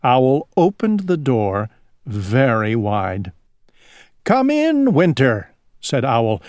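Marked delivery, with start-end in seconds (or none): 4.2-5.5 calling out warmly. Acted. Owl welcomes Winter warmly.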